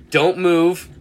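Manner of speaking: loud, slow, firm orders; firm commands. Retold or imitated. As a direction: bark the orders to stay put. Ordering drunk friend to stay.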